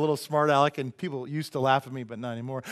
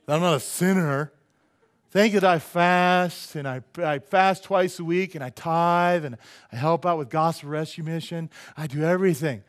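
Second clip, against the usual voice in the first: lightly voiced self-righteous prayer, louder; Pharisee praying; 2 semitones higher, 6 dB louder than usual. Pharisee praying at the temple, lightly played self-righteousness. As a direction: pray aloud like a hint of a proud Pharisee. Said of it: "the Pharisee coming to pray".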